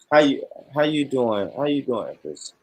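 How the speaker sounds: mild, flat smooth-talker try; a half-hearted greeting; a botched first take of a flirt line; weak pickup line. Pretend. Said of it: "Nah, that's weak as hell".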